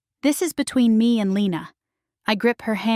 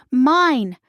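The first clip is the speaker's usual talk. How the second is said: loud high yell; furious shout; 5 semitones higher, 5 dB louder than usual. Acted. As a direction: bellow it, possessive. Villain raging at the sisters.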